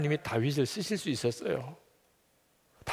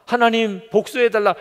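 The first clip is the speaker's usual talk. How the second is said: mock desperate cries; 6 semitones higher, 6 dB louder than usual. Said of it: "다윗의 기도는 그저".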